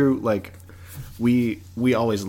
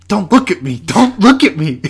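much higher, louder imitated wail; retold crying yell; 12 semitones higher, 14 dB louder than usual. Friend Andrew at the sad scene, a loud imitated wail. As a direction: wail it like hiding tear-filled eyes. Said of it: "and he just goes".

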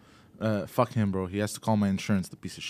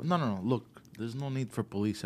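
softer, calm reassuring voice; 10 dB quieter than usual. Retold or imitated. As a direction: soothe him after a breath. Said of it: "I took a breath".

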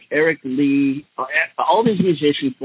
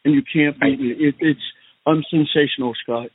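Donald Trump impression. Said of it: "and I'm the Donnie Trump".

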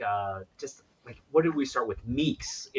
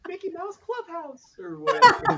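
cartoon voice. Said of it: "Both of you guys, very good".

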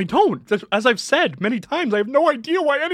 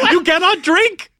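raised-pitch, hammed-up proclamation; mock-righteous decree; 5 semitones higher than usual. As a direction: banish them with pompous outrage. Acted grand banishment of the customer.

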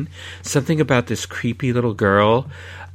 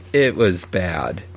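scathing critique; 5 semitones lower, slower than usual. Real, not acted. Low, slow final verdict.

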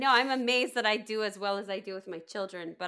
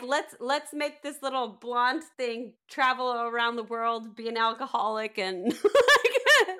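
laughing mock gamer; 3 semitones higher, 6 dB louder than usual. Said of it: "mine was like".

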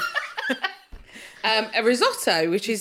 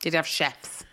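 whispered, softer, teasing; 8 semitones lower, 7 dB quieter than usual. Real, not acted. Teasing friend about the posh flatmate, whispered. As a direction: lean in and whisper it.

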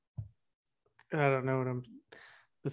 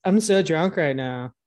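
mocking girly voice; 2 semitones lower, 4 dB louder, slower than usual. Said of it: "Only girls are like".

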